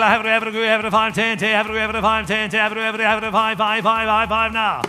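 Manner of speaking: auctioneer. Acted. Auction bid calling chant.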